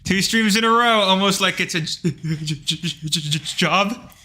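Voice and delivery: jittery caffeinated stammer; wired on coffee, tripping over words. Real, not acted. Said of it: "I'm really caffeinated right now".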